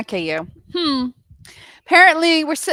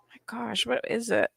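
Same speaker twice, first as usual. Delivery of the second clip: whisper; 2 semitones higher, 7 dB quieter than usual. Real, not acted. Searching, muttering to self.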